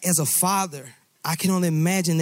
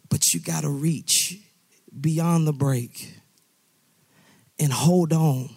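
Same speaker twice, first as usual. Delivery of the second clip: gentle reassurance; slower than usual. Acted. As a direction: soothe him while you urge him on. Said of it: "Hey, I know, daughter, son, I know".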